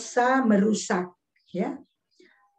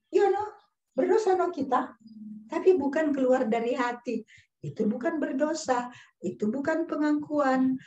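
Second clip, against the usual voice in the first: flippant denial; 3 semitones higher than usual. Retold or imitated. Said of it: "Ibu Norce bilang".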